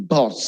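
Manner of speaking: "boss" with open o; correct pronunciation. Shown as a demonstration. Teacher modelling the word. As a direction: clear "boss". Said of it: "Not boss".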